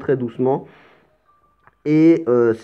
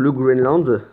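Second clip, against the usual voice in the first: slight English accent; slower than usual. Real, not acted. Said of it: "Avec mon petit accent anglais".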